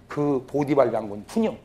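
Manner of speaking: usual speaking voice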